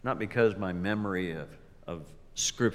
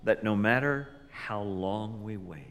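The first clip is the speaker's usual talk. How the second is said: prayer; 3 dB louder than usual. Acted. Leads a prayer.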